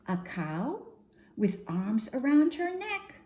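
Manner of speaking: lively, sing-song picture-book reading; expressive storytime voice for little ones; reading to children. Acted. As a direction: read the rhymes out to a group of kids.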